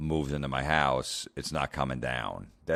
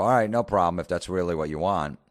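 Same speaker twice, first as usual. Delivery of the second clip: higher, louder, easygoing assent; agreeable girlfriend imitation; 4 semitones higher, 5 dB louder than usual. Imagined girlfriend who is totally into him, readily agreeing. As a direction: play a partner happily going along.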